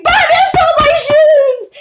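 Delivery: high, loud mock scream; retold scream. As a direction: reenact the panicked yell. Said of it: "I legitimately started screaming".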